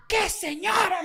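high-pitched incredulous question; imitated baffled mother. Mother questioning her child about the lady, high incredulous imitation. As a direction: throw it back high, mock-incredulous.

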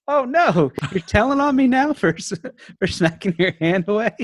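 hammed-up disbelief at being told on; mock indignation. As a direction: play up being wronged by a toddler, laughing at the end. Dad's mock outrage at toddler.

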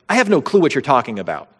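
quick, mildly emphatic denial; acted denial, only lightly pushed. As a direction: brush it off in a quick rush. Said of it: "It's an emphatic denial".

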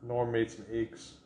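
put-on light Fargo-film accent. Quoting the movie Fargo to a partner, Fargo accent. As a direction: quote it in Fargo dialect. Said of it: "It's that Fargo accent".

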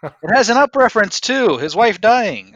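loud, laughing while talking. Real, not acted. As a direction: laugh the words out. Laughing, adding to joke.

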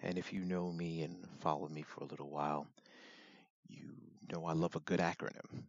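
hoarse, raspy throat. Real, not acted. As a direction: talk through a rough, raspy voice. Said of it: "Sorry about the raspy voice".

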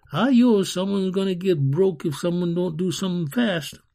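put-on urgent boy. A narrator's reading. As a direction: pipe up urgently like a street kid. Boy urges others to act.

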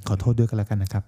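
mock sincere apology. Host to listeners, faking a solemn apology. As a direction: ham the earnest sorry. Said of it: "ทำไมนะครับ".

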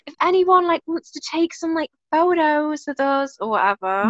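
put-on a loose American accent. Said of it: "why I'm saying an American accent".

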